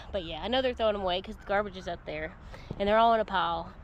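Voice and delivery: breathless after climbing the wall; panting between words; out of breath. Real, not acted. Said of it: "I'm out of breath now".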